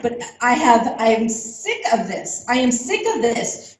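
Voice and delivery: getting mad. Real, not acted. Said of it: "I'm getting out mad".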